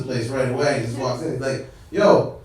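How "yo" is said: cocky imitation of a Latino regular; swaggering mock-Spanish greeting. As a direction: act like you own the place. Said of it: "walks in with this swagger".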